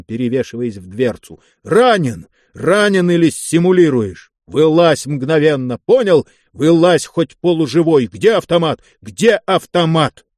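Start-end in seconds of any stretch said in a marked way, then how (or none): 1.6-10.3 angry yelling. Acted. Osin berates driver in wreck.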